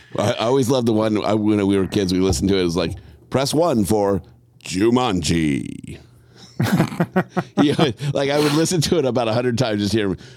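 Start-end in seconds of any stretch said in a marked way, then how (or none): 3.3-6.0 put-on announcer voice, much slower. Recalling a phone line from childhood, doing the Moviefone announcer voice. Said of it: "Now you can do the voice".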